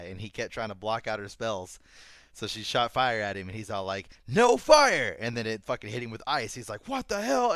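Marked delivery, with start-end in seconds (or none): 4.3-5.2 high, loud defiant yell; mock outraged shout. Acted shouts of angry opponent. 6.9-7.5 high, loud, baffled cry; exaggerated startled yelp; mock shocked outburst. Retold opponent's shocked reaction.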